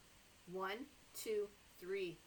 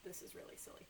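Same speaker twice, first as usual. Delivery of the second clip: whisper; 12 dB quieter, much faster than usual. Real, not acted. Aside to kids.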